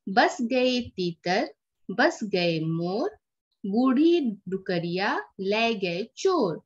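slow sing-song folk rhyme recital; teacher reciting a Teshu rhyme; poem recitation. Acted. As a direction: recite it slowly for children to follow. Reads the poem aloud to class.

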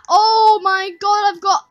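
excited. Real, not acted. Huge score.

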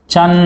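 చన్ with the closing n held; final n sound. Shown as a demonstration. Teacher showing mid-word sunna in Chandrudu, చన్ with held n. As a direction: say చన్, tongue staying on the n. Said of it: "అని పలుకుతాం".

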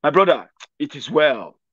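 lightly voiced educated man consoling; mildly solemn reassurance to a brother; educated consoler. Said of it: "When you meet the educated ones".

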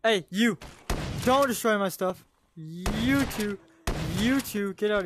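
real alarmed shout at zombies; yelling. Real, not acted. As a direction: shout them off your stuff. Yelling at zombies wrecking base.

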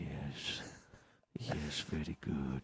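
put-on slow, low, hushed Indian accent; Vishnu. Caller introducing himself to operator, low Indian accent. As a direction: murmur it shyly in an Indian accent. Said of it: "an Indian dude on the sex".

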